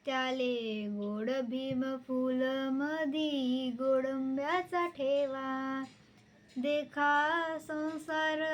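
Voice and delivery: measured, sing-song recitation of a folk poem. Acted. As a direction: recite each line with a lilting rise. (कविता गायन शैलीत, लयबद्ध)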